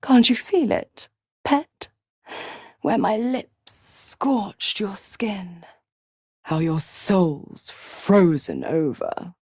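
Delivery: slow, lingering whisper; seductive whisper. Acted. Devil reminding her pet where her lips scorched, seductive whisper. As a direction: whisper it slowly like an intimate taunt.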